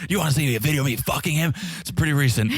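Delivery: imitating a spiteful girlfriend; mocking Jasmine. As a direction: rattle it off like a taunting ex. Mimicking Jasmine's rage.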